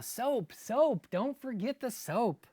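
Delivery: high, loud happy shouting; boy shouting to his mama. A narrator's reading. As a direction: call it out running home, proud. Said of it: "shouting to his mama".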